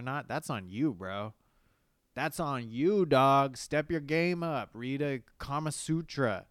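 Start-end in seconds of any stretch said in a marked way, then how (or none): 2.1-6.5 loud scolding. Real, not acted. Scolding the guy, louder.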